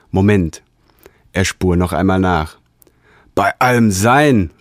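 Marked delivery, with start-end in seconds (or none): 3.3-4.5 slow, raised cry of wonder; excited exclamation. Acted. Sensator amazed at his find, slow raised cry. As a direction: let it out in awe. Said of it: "rief er nach einer Weile".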